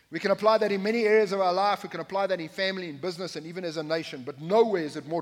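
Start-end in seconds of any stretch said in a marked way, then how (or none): 0.1-1.8 louder, faster emphasis. Acted. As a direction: push it louder and quicker. Preacher repeats line, now louder, faster.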